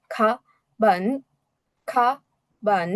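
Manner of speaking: খা, বান apart, each tone completed; slow careful tones. Shown as a demonstration. Teacher models careful reading, খা, বান with full tones. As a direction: sound out খা, বান unhurriedly, syllable by syllable. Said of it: "যখন আস্তে আস্তে উচ্চারণ করবো".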